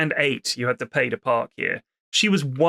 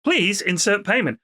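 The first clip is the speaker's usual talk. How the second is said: a slightly higher, mechanical repeat of the machine; robotic machine voice; 5 semitones higher than usual. Retold or imitated. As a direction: lightly mimic a nagging payment machine. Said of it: "the machine was just going".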